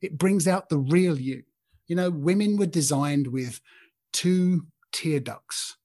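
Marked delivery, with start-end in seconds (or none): 4.1-5.8 slow, hushed whisper. Acted. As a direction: lean in and whisper it slowly. Intimate point to men.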